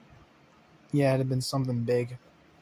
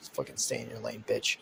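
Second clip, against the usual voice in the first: much lower, softer menacing snarl; low glaring threat; 3 semitones lower, 6 dB quieter than usual. Acted. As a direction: growl it low like a warning. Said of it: "kinda glares at her".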